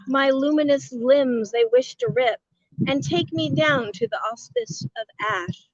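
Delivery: grand rhythmic bard; poem reading. Acted. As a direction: recite it like an epic poem. Reads son's poem aloud.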